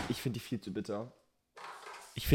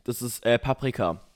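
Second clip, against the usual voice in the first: dad calling out; 5 dB louder than usual. Retold or imitated. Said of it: "mein Vater hat so aus dem Fenster gesagt".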